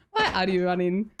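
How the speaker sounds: imitated Nigerian accent, questioning. Streamer quoting a line to chat, Nigerian accent. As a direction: ask it in a mock Nigerian accent. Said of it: "Nigerian accent was not my".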